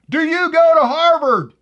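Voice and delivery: hammed-up Boston accent, dragging it out; Boston accent punchline, loud and slow; mock Boston accent. Punchline, mocking her pronunciation.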